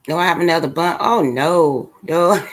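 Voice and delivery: chewing while talking; mouth full. Real, not acted. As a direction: talk through a mouthful. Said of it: "Hold on, I gotta spit this out".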